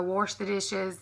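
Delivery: "wash" said "worsh", with an R; family's warsh. Retold or imitated. Imitating family off to the sink, worsh. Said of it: "they say wash".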